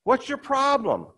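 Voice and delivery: husband quizzing his tearful wife, mildly; husband's question. Retold or imitated. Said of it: "He says".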